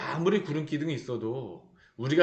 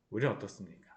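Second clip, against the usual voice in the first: "우리는 어떻습니까?" said again much softer and lower; quiet repeat; 7 semitones lower, 9 dB quieter, faster than usual. Shown as a demonstration. Preacher repeating the question to the congregation, hushed. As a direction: drop the voice to let "우리는" sink in.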